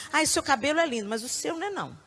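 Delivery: mock sweet then cutting; catty compliment. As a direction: fake praise, then a dig. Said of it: "falasse assim". (elogio falso e maldoso)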